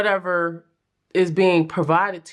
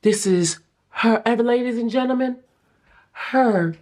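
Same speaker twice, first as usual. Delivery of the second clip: announcer hype; 3 semitones higher than usual. Pretend.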